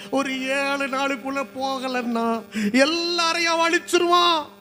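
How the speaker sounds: slow build to a loud, high cry; alarmed warning. Acted. Messengers warn their people of the seven-day deadline, mounting alarm. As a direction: stretch the threat out, climbing in alarm.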